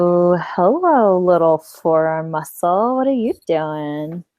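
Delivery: slow, teasing coo; flirty. Pretend. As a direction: tease it out slowly. Flirting with own forearm.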